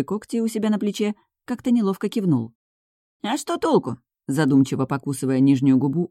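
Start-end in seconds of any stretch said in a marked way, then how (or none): 3.2-4.0 wry smirk. A narrator's reading. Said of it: "усмехнулся он".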